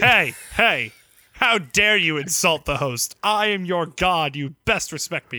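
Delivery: loud, indignant mock scolding; puffed-up, punchy fake indignation; mock outrage. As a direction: play the affronted host. Mock outrage at co-host insult.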